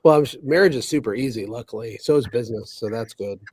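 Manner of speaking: dry sarcastic deadpan; sarcastic, saying the opposite. Real, not acted. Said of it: "I feel like you're being sarcastic".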